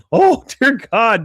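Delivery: high, slow mock horror; appalled Irish onlookers. Irish guests seeing the beating, mock appalled. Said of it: "the Irish people are like".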